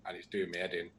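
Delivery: ordinary talk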